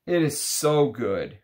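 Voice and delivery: drawn out like tasting something wonderful; savoring delight. Real, not acted. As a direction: draw out the praise with pleasure. Savoring the fragrance after a pause.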